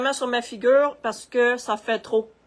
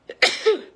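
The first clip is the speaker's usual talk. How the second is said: sneezing; 11 semitones higher, 6 dB louder than usual. Real, not acted. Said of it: "ça me chicote dans le nez".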